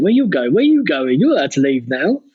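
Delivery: hammed-up Rebel officer barking; officious guard. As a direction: play a jobsworth officer stopping you. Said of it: "that happens a lot in Rogue One".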